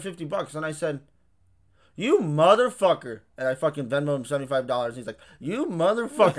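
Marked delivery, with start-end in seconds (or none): 2.0-3.2 drawn-out mock outrage. Retold reaction to friend paying bill. 5.4-6.4 laughing mock outrage. Friend's retold reply, laughing.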